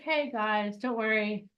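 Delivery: the elephant subconscious reminding the audience, soft and knowing. Retold or imitated. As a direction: speak like an all-remembering elephant. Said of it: "This is our subconscious. He's like".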